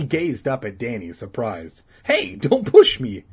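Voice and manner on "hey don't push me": high, loud, drawn-out objection; indignant protest. Acted. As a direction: kid crying foul at a shove. Boy shoved, calls out.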